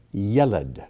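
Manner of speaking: yeled with the accent on YEL; first-syllable stress. Shown as a demonstration. Teacher reading the word list, yeled stressed on YEL. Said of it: "accent comes on the first syllable".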